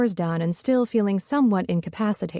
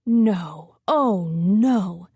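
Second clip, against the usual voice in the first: shocked; 2 semitones lower, much slower than usual. A narrator's reading. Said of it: "The gasp of shock was unmistakable".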